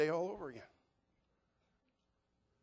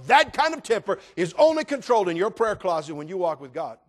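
full-voiced pulpit preaching, rising on lists; 8 semitones higher, 9 dB louder than usual. Preacher urging the congregation to let God control them, preaching hard. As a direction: preach it out to the whole room.

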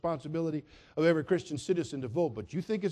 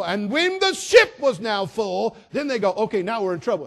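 preaching at full force; 3 semitones higher, 8 dB louder than usual. Acted. Preacher builds to a shout over the organ music. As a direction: drive it home over the organ.

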